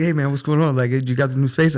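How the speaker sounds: loud, high-pitched, hyped-up imitation; amped-up greeting at full volume; wired. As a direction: blurt it like someone buzzing with energy.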